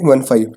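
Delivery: वन फ़ाइव read as two separate digits, one then five. Shown as a demonstration. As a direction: split वन फ़ाइव into single digits, never fifteen. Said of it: "इसको फ़िफ़्टीन नहीं पढ़ेंगे".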